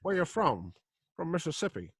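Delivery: mock cowboy voices. Mock cowboy dialogue, Brooklyn joke.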